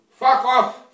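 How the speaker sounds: mock Russian accent, curt and angry; angry brush-off. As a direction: bite it off at the friend in the fake Russian accent. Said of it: "He tell me".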